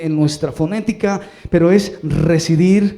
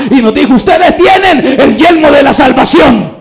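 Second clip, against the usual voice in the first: building louder and higher to a shouted climax; preaching at full force; 6 semitones higher, 8 dB louder than usual. Acted. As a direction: preach it up until the congregation roars. Predicación creciente a plena fuerza. (predicación a todo pulmón, subiendo hasta gritar)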